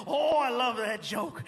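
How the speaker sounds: slow, drawn-out delighted gush; gushing fan. Retold or imitated. Cop praising the comedian's joke, gushing. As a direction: savour it, stretching the "oh".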